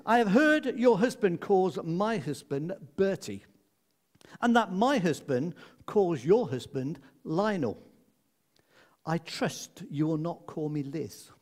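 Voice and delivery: lightly voiced regal Queen, cool and polite; a hint of a haughty old Queen putting her guest in place. The Queen coolly warning Mrs Logie, lightly regal voice. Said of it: "I'll do my best Queen voice".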